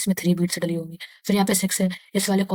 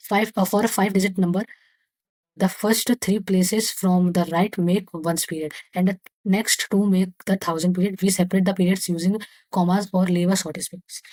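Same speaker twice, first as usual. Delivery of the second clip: slow textbook reading; much slower than usual. Acted. Reads textbook text aloud to class.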